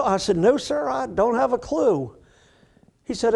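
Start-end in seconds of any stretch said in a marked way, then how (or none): 0.4-2.2 sheepish newcomer. Retold or imitated. Humble clueless newcomer reply.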